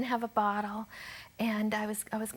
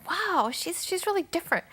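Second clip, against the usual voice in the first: retold surprise; 8 semitones higher than usual. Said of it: "And I thought".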